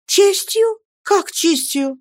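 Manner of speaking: put-on high startled girl's question; bewildered. Girl puzzled by her lover's talk of honour, bewildered. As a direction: catch on the word, puzzled. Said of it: "спросила девушка с недоумением".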